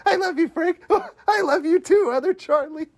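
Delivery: very high, squeaky mock voice; Frank. Frank talking to a pretend Charlie mannequin, squeaky mock voice. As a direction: squeal it like a puppet's voice. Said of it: "Frank builds ... pretend it's Charlotte".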